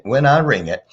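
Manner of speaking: ordinary talk, nothing marked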